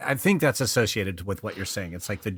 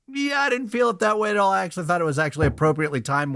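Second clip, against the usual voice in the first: reassuring colleague voice; 7 semitones higher, faster than usual. Retold or imitated. Others reassure her, voiced.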